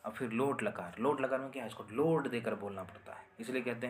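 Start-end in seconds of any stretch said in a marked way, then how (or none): none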